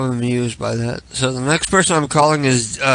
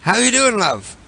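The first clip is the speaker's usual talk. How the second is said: put-on voice; 10 semitones higher than usual. Put-on caller voice.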